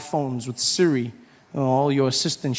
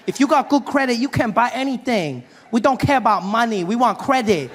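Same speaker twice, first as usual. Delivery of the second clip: put-on higher, insistent accented dealer voice; Asian dealer impression; 5 semitones higher than usual. Dealer lecturing about credit in America, higher accented impression. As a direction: push the broken-English sales pitch, a bit higher. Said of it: "this Asian gentleman helping me".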